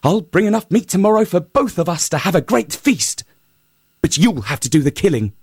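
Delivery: high, sly little hare asking for help; a lightly high hare voice; hare's voice. Acted. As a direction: pitch it up as the clever hare. Hare speaks to the lion.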